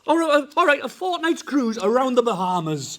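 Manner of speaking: loud game-show host pitch; booming prize announcer. Acted. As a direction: boom it like a prize reveal. Escalating bribes to the team.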